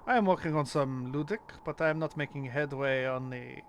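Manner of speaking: put-on light French accent, pitched a bit up; a French detective speaking English with a French accent. A French detective sharing his dream research, in a French accent. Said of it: "Whenever I do a French accent for a character".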